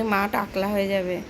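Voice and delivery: amused mock repeat. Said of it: "কি বদমাশ বলে".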